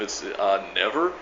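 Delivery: "never" lifting at the end; deadpan answer. Retold or imitated. Repeating the answer to commenters, deadpan. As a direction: drop it as obvious, with a rising tail.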